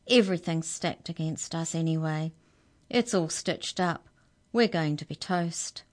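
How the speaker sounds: ordinary delivery, nothing marked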